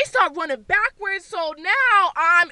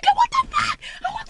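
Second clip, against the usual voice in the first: very high-pitched yell; reenacted frantic protest; outraged shriek. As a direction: shriek it while kicking people away. Reenacts fighting off scare actors.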